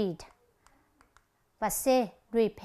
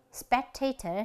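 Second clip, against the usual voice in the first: "spectator" stressed on TA; second-syllable stress; slower than usual. Shown as a demonstration. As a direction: lean on the middle syllable of "spectator". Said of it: "nhấn âm thứ nhì". (nhấn âm thứ nhì của "spectator")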